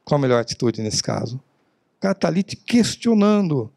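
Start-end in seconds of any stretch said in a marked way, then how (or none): 0.0-1.4 real question. Shown as a demonstration. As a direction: ask it for real and wait. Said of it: "agora é uma pergunta". (pergunta de verdade, mais baixa)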